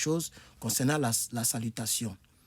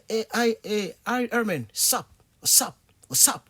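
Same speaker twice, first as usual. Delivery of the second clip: a lightly voiced, higher, casual "hey, hi"; casual American greeting; 7 semitones higher than usual. Teacher imitating Americans greeting Herman, lightly voiced. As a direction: toss off a breezy hello to a friend. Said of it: "Donc, il va".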